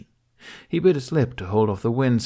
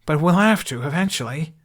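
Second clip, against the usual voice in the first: shouted over wind; 7 semitones higher, 6 dB louder than usual. A narrator's reading. Shouting mid-flight dialogue.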